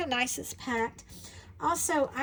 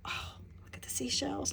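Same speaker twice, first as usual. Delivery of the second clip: whispered in awe; awed whisper; 2 semitones higher, 6 dB quieter than usual. Real, not acted. Admiring seashell tiles, awed whisper. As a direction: hush it like a treasure.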